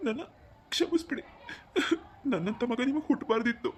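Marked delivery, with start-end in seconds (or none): 0.1-1.2 high, tearful begging for forgiveness; tearful plea. Acted. Son begs his parents to forgive him, tearfully. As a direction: crack on the plea as if near tears.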